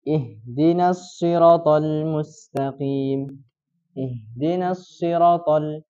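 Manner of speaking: siratal with a short ra, no long vowel, slow; slow recitation dropping the long vowel; shortened ra. Shown as a demonstration. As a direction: clip the a after r in siratal. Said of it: "Dia pendekkan".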